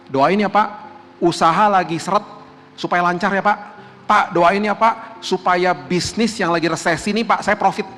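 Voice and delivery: pleading congregant. Retold or imitated. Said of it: "ngomongnya begini".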